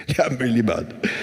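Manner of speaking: put-on a light Trinidadian accent repeating himself; imitating the Trinidadian store owner's lilt; a laughing hint of a Trinidadian accent. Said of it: "their own kind of interesting accent".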